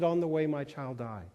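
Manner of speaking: low, subdued retelling of a loss; a touch of sorrow; understated grief. Retold or imitated. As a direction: break the news quietly. Retold death of a child.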